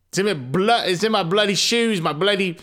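hammed-up panicked aside; mock doom joke. Narrator joking about coronavirus in the father's voice, mock panic. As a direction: fake alarm for a laugh. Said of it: "Just kidding".

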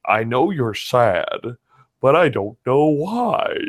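slow, gentle lightly voiced dog; a hint of a sweet old dog, slowly; Shadow impersonation. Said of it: "my Shadow impersonation".

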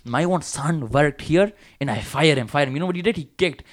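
mock South Asian boss scolding the boys; mock brown accent. Owner scolding lazy young workers, in a mock South Asian accent. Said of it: "I'm just gonna do a brown accent".

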